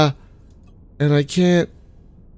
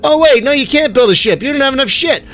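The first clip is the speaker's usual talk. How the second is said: lightly mocking, slightly higher voice for the game; game taunting player; 3 semitones higher than usual.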